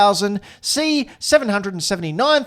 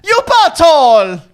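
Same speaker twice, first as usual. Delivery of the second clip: mock Mario voice; 9 semitones higher, 7 dB louder than usual. Imitating the Mario voice actor.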